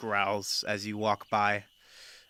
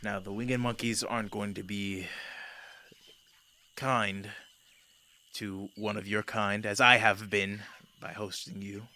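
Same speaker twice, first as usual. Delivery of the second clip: measured, mildly weary delivery; sighing. Acted. Host warning an unwelcome guest about the monkeys, with a mild sigh. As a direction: speak with a touch of resigned formality. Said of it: "He kind of sighs and he goes".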